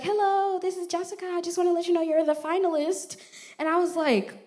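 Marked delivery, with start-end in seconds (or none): 0.0-3.1 high, bright-voiced recruiter on the phone; raised, chirpy office voice; Jessica. Recruiter texting the good news, chirpy and high. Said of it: "she was like".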